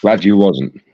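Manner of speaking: talking through a mouthful of food; mouth full. Real, not acted. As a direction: say it around a bite of food. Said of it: "rude to talk with your mouth full".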